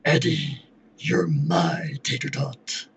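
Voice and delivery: slow whispered Venom impression; slow, breathy symbiote whisper. Shown as a demonstration. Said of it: "can you do like Venom and say".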